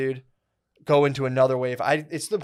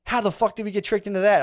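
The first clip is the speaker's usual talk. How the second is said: incredulous outburst; 8 semitones higher, 3 dB louder than usual. Retold or imitated. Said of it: "I was just like".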